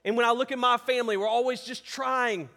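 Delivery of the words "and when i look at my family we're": pleading lament. Retold or imitated. Voicing a believer's lament to God.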